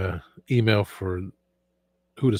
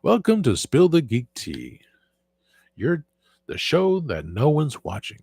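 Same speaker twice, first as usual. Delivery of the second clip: high, swooping announcer voice; Movie Phone announcer; 4 semitones higher than usual. Acted. Streamer trying a show intro, as a phone-line announcer. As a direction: announce it with big sing-song swoops. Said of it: "movie phone voice".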